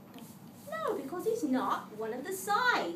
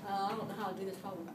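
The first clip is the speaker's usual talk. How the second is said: whiny student; 7 semitones lower, 6 dB quieter, much faster than usual. Retold or imitated. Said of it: "you come to my desk and you say".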